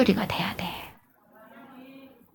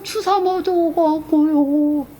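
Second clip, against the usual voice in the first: high, drawn-out mock whine; imitating a feeble, pleading complainer; whiny excuse; 9 semitones higher, much slower than usual. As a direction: whine the excuse, stretching every syllable. Acting out excuse about an injection.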